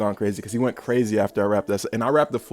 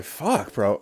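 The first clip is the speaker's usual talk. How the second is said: inner reaction. Retold or imitated. Retelling his silent reaction to the boss's story, stunned. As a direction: blurt it like a thought that was never said aloud. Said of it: "in my head, I was like".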